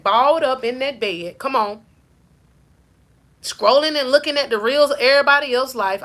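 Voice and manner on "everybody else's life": southern slang. Shown as a demonstration. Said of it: "I said it like that in my southern slang".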